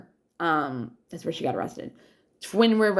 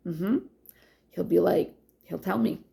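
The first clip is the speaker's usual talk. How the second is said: ordinary talk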